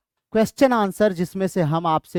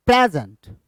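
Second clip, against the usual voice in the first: "प्रेजेंट" with weight on प्रे; stress on first syllable; 3 semitones lower, 3 dB louder than usual. Shown as a demonstration. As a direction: hit the start of "प्रेजेंट", ease off after. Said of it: "इस पे ज्यादा stress करते हैं". ("प्रेजेंट" में प्रे पर ज़ोर)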